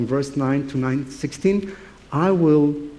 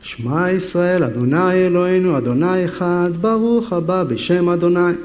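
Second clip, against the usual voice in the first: Hebrew prayer; 3 semitones higher than usual. Retold or imitated. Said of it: "I'm gonna stick here. This is the holy spot".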